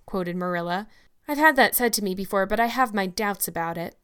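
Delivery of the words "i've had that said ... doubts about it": skeptical. Acted. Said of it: "remarked skeptical Anne".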